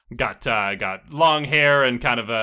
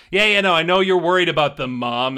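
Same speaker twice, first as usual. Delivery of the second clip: louder, higher exasperated placating; teasing brush-off; 5 semitones higher, 6 dB louder than usual. Acted. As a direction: brush her off like a nagging mother. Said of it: "He's like".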